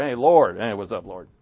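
breezy, offhand "Hey, Lord" like greeting a buddy; mock-casual greeting of "Lord". Shown as a demonstration. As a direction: toss off "what's up, Lord" carelessly. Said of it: "That's not just a casual Lord".

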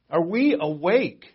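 "Are we awake" drawn out slowly, leaning on "we"; slow it down and press each word home; slow, pointed repeat. Shown as a demonstration. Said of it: "Are we awake to this?".

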